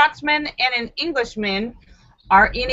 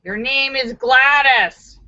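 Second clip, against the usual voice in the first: slow teacher correction; 4 semitones higher, 4 dB louder, slower than usual. Acted.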